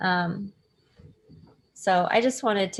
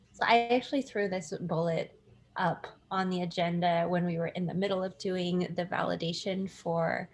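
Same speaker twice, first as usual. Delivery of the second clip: audio through computer speakers; tinny laptop mic sound. Real, not acted. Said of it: "I apologize in advance for my audio because I cannot find my headphones, so I'm speaking through the computer itself".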